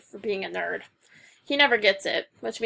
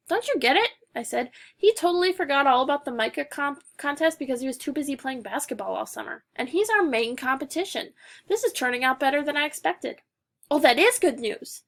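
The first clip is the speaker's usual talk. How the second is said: excited; 4 semitones higher, 3 dB louder than usual. Acted. Gleeful about beating rival.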